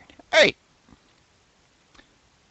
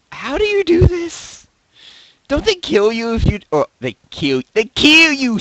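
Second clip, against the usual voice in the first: much higher, swaggering stereotyped gangster voice; 10 semitones higher, 9 dB louder than usual. Retold or imitated. Joking about a famous rapper, a stereotyped black gangster voice. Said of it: "no more racist voice".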